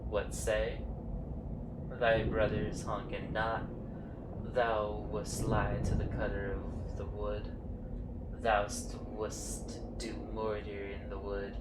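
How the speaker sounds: a hint of a grave forest spirit, speaking thee and thou; understated archaic courtly voice, measured and grave; archaic tree voices. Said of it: "You don't talk like that".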